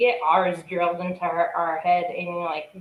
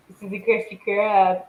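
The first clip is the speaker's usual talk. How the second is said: Patrick voice; 2 semitones higher, 5 dB louder, slower than usual. Retold or imitated. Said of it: "he's like".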